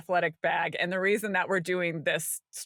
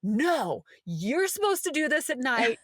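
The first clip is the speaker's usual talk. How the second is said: mock scolding; 5 semitones higher than usual. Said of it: "not to scream back".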